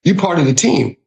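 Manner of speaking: open-armed Southern hospitality; welcoming call-in. Retold or imitated. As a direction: welcome them in like one of your own. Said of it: "the get in here approach".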